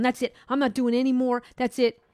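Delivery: mock fed-up protest; imitating complaining coworker. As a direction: mimic someone announcing they quit. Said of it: "she's just still complaining".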